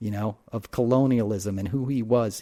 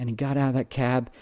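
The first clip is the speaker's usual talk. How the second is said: usual speaking voice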